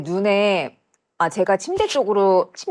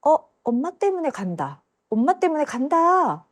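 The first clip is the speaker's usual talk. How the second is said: retold departing voice; 7 semitones higher than usual. Unseen voice leaving because of mother, lightly imitated. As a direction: lightly imitate a voice calling as it leaves. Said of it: "이러는 소리가 들리는 거예요".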